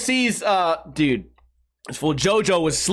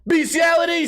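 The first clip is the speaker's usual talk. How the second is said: mock yell; 8 semitones higher than usual. Re-enacting the mic drop line.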